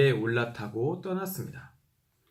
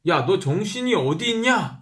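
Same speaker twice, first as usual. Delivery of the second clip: a hint of a scolding elder, drawn out; mock scolding; 6 semitones higher, 4 dB louder than usual. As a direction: chide someone who isn't paying attention. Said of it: "그 예를 들어". (정신 차리라고 나무라는 흉내)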